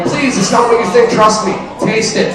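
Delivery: high, hammed-up pleading whine; mock begging. Man begs his woken, angry girlfriend in a high mock plea. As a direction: beg her in a high silly whine.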